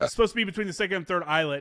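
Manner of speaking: fast, dismissive parroting of the gunny; scoffing at the rule by rushing through it; mocking repeat. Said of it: "I'm a staff sergeant".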